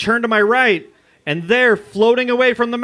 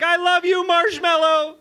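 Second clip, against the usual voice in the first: higher, mock-sweet call to the cat; lightly voiced girlfriend yelling; 10 semitones higher, slower than usual. Girlfriend calling to the cat in a high mock-sweet voice. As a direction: sing it out sweetly. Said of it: "She yells back".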